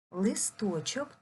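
листочок said slowly with a rising end; slow stress demo. Shown as a demonstration. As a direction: stretch листочок to show its stress. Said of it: "Підберемо слово, щоб ненаголошений голосний став наголошений".

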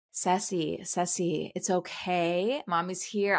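retold motherly soothing, slow on the reassurance; gently calm a panicking child, understated. Mom to panicking daughter on a roller coaster, calming. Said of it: "I'm trying to calm her down".

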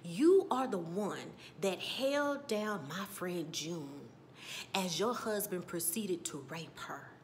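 slow, measured retold confrontation; solemn accusation. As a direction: lay out the charge deliberately, imitating her. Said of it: "I gotta get this off of my chest".

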